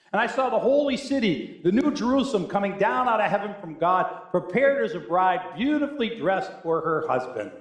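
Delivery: lifted pulpit reading; proclaimed scripture. Real, not acted. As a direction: read the vision out with awe and conviction. Reads scripture aloud.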